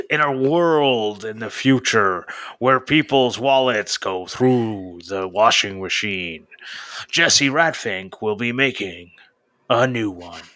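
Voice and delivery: mock dramatic trailer narration; movie trailer voice. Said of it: "a movie trailer voice".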